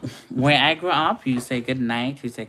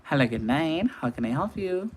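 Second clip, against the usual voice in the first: phone greeting. Retold or imitated. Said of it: "I'm gonna say".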